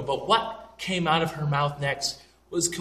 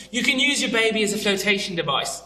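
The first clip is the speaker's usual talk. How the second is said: higher-pitched mock British accent; British accent, raised in pitch; sharp-witted British hostess; 5 semitones higher than usual. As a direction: imitate a cutting British flight attendant. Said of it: "she had, like, this sharp wit".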